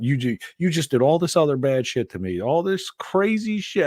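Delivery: high-pitched mock protest; indignant partner impression. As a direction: protest high, dragging out the end.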